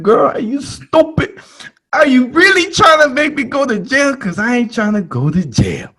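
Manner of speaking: high, loud mock yell at the friend; outraged. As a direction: scold her in shocked disbelief. Shocked yelling at friend.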